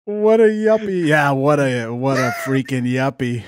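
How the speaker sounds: mild mock Boston sneer; a touch of Boston scorn; Boston accent. Mocking the suburban guy in light Boston accent. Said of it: "when I do the Boston voice".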